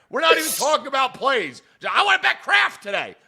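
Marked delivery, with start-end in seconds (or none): 1.9-3.1 mocking quote. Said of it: "And I said".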